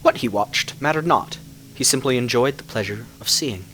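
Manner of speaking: measured storyteller telling a dark fairy tale; story narration. A narrator's reading. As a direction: draw listeners into a legend. Reads a fairy-tale style tale.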